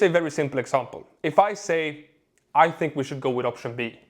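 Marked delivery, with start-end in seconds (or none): 2.5-4.0 firm, assured statement; confident. Shown as a demonstration. Coach modelling a decision at work, confident. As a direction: say it like you believe in your choice. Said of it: "It sounds confident, like I actually believe".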